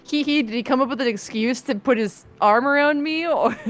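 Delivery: giggling. Real, not acted. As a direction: giggle through the question. Giddy aside about Stan.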